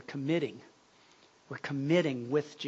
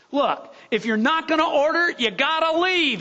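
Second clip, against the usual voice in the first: loud angry cook; 11 semitones higher, 6 dB louder than usual. Retold or imitated. Cook ordering the woman out, loud and angry. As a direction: throw her out of the diner. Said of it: "he got real loud about it".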